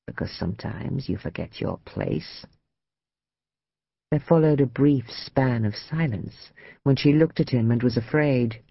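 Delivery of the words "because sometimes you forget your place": low, soft warning; quiet menace. A narrator's reading. Man putting his lover in her place, quiet menace. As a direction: drop right down, quietly menacing.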